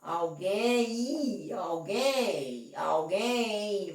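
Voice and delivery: alguém with silent U, awgẽ; alguém drawn out without any U sound; model pronunciation. Shown as a demonstration. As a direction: repeat alguém slowly as awgẽ for the class. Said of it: "você fala assim".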